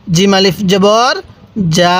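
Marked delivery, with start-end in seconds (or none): 1.8-2.0 যা with a long Quranic madd; long drawn vowel. Shown as a demonstration. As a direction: stretch যা out for a full long pull. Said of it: "লম্বা টান দিবেন".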